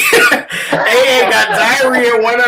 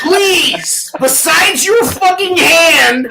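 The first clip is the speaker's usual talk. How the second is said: shouted, higher, slow jabs; angry rant; 4 semitones higher, slower than usual. Real, not acted. Ranting at internet posers, he shouts in anger. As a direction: yell the insult out slowly. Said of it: "And that is your rant".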